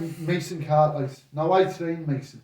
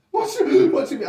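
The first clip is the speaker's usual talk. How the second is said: confused laugh; 13 semitones higher, 7 dB louder, much faster than usual. Retold or imitated. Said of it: "boxer confused by Jedi talk".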